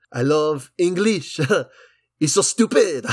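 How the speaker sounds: a light, lazy put-on French accent; mock French accent. Film critic imitating a slumped Robert Pattinson, mock French accent. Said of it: "he said".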